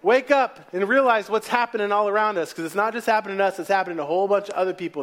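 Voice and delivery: desperate yell at God in a crisis. Acted. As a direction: yell for help as the storm takes over. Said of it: "you just gotta yell out".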